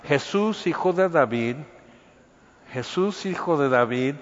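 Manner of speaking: a blind beggar calling out to Jesus, a lightly voiced cry; mock crying out. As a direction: call out "Jesús" on a rising pitch like a beggar. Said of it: "empieza a gritar".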